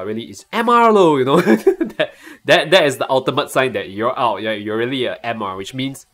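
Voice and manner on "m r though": high, half-held-back yell; mock shout. Shown as a demonstration. Streamer showing viewers what he wants to shout, high mock yell. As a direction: call it out high, short of a full shout. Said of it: "What I really want to shout".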